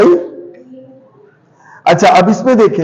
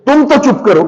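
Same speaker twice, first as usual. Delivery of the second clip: higher, sharp telling-off with weight on तो; scolding order; 4 semitones higher than usual. Shown as a demonstration. Teacher shows a scolding order to silence someone. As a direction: scold them so they shrink back. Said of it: "ये फर्क देखिए दोनों में".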